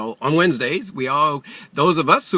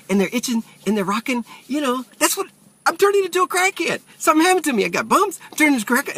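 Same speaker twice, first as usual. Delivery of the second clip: higher, rushed mock panic; panicking; 6 semitones higher than usual. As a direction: act out a jittery patient losing it. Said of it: "So I'm panicking in the doctor's office".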